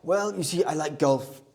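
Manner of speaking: lightly voiced presidential parody; Donald Trump. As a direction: play the pleased politician giving an answer. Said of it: "let's leave President Trump".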